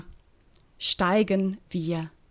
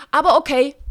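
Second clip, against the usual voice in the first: sarcastic; 8 semitones higher, 11 dB louder, faster than usual. Acted. Reread after cut, same sarcasm.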